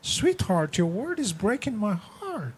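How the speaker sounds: soft sweetheart plea; gentle hurt plea. Pretend. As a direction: ask tenderly, heart hurt. Voicing a gentle spouse.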